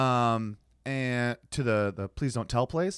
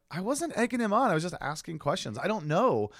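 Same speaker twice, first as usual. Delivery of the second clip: higher-pitched retold self-defense; defensive protest; 6 semitones higher than usual. Accused of egging him on, defensive. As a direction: imitate protesting your innocence. Defending herself to annoyed friend's girl.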